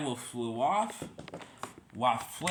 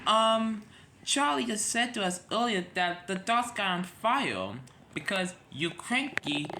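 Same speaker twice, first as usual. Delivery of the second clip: lightly voiced engine; 5 semitones higher than usual. Engine voiced raised pitch in story.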